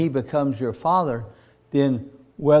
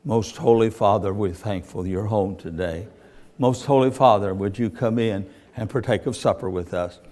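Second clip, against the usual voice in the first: mock formal prayer; 4 semitones lower than usual. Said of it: "there's no way I would have went to the driveway and said".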